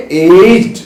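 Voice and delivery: एज्ड drawn out with a long A and final d, firmly voiced; demonstrated pronunciation. Shown as a demonstration. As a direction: say एज्ड slowly as a model. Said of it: "क्या बोलेंगे?".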